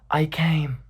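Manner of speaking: whispered imitation of a lover; whispery retold admission; hushed confession.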